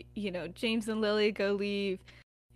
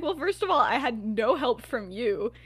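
raised, louder playful accusation; mock indignation; 6 dB louder than usual. Lily blaming James, playfully indignant. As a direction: act out a bickering girlfriend's complaint.

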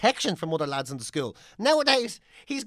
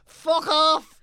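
fed-up yell; 4 semitones higher, 4 dB louder, much slower than usual. Real, not acted. Exasperated outburst.

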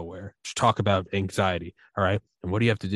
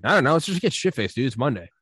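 buddy voice; 3 semitones higher, 3 dB louder than usual. Retold or imitated. Buddies voiced going to the bar.

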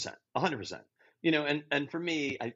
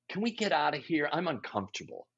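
uneasy murmur; 5 dB quieter than usual. Acted. Imagined prom-goer wanting out, uneasy murmur. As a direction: quietly ask to leave, trailing down.

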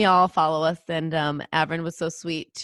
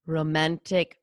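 tiger roar; slower than usual. Pretend. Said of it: "That was my tiger sound".

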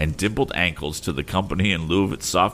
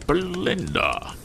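higher, slow pleading call to his wife; remonstrating husband; 12 semitones higher, slower than usual. A narrator's reading. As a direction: protest to her across the table. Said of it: "remonstrated Mister Pocket".

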